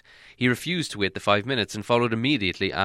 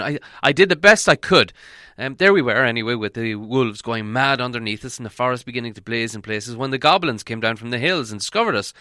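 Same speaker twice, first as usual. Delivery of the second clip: put-on eager old wizard; 2 semitones higher, 4 dB louder than usual. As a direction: hurry on with the tale, a bit flustered. Gandalf continues tale.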